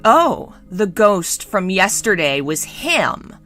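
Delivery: coolly scornful, taking time over the words; slow, cool disdain; cool comment. Acted. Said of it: "commented coolly".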